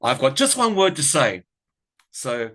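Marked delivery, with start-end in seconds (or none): 0.0-1.4 Kath's catchphrase. Retold or imitated. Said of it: "in the way that she says it to her daughter".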